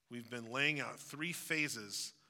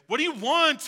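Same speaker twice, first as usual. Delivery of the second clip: loud, high, fed-up yell; annoyed teen outburst; 13 semitones higher, 13 dB louder than usual. Retold or imitated. Teenager yelling at parents pounding on the door. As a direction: snap it at nagging parents. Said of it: "you just wanna say".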